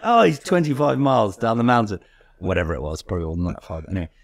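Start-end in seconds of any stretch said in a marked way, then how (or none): 0.0-2.0 put-on German-accented coach, pitched higher; lively retelling in mock German accent; imitated German accent. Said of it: "I'm not gonna do the accent".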